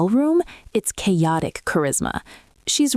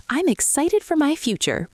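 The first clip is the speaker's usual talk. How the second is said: imitating her to the judge; 8 semitones higher than usual. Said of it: "telling the judge".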